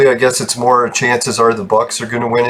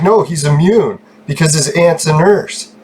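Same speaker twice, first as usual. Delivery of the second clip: slow, higher mock voice; 4 semitones higher than usual. Mocking the friend's claim his aunt protects him. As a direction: drag it out like a silly excuse.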